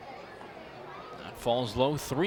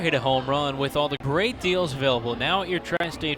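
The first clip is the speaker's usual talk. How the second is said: ad read. Acted. Sponsor ad read.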